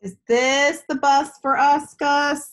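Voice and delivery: a hint of a hopeful child; eager little girl. Girl Tess asks in story.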